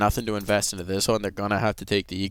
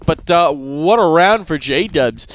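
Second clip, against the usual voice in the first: loud, slow hyped caster call; excited; 4 semitones higher, 7 dB louder, much slower than usual. Real, not acted. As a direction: drag out the praise with hype.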